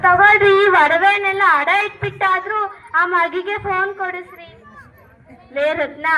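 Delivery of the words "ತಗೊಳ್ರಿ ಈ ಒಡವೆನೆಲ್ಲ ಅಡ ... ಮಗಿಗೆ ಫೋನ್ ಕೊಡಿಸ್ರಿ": louder, urging husband to pawn the jewels; insistent wife. Acted. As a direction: push the jewels on him, loud and firm. Wife hands over her jewellery.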